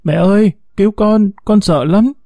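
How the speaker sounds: put-on a little boy about to cry on the phone; whimpering child. A narrator's reading. Kidnapped boy begging his mother over the phone, whimpering. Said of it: "một giọng trẻ con mếu máo vang lên".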